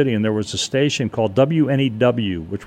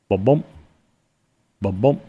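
imitated heartbeat. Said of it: "what I think is a heartbeat".

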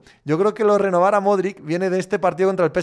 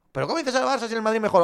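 mock arguing caller; 4 semitones higher, faster than usual. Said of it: "el periodista lo más que puede decir es".

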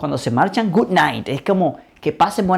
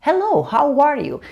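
friendly waiter's hello with a smile; cheerful, smiling welcome; smiling greeting; 4 semitones higher, slower than usual. Shown as a demonstration. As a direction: greet the guest brightly, pitch swinging up. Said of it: "Siempre acompañado de una sonrisa".

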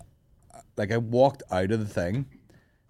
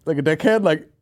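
incredulous rant; 9 semitones higher, 5 dB louder than usual. Real, not acted. Ranting about fan.

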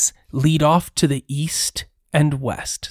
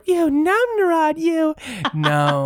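moaning ghost; 13 semitones higher than usual. Acted. GM voicing moaning dwarf ghost.

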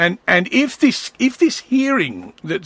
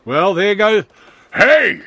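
mock redneck call; 3 semitones higher, 5 dB louder than usual. Mock redneck neighbour calling out.

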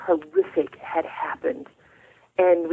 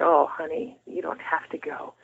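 hushed, much softer and tender; gentle grandmother; 6 dB quieter than usual. Retold or imitated. Grandmother gently reassuring her granddaughter, hushed and tender. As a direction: soothe a scared grandchild almost in a whisper.

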